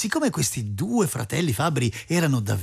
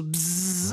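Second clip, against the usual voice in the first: diving horsefly buzz; 4 dB quieter than usual. A narrator's reading. Storyteller's Loki horsefly dives at a nose, buzzing. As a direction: buzz of an insect swooping in. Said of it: "Loki Tafano scende in picchiata".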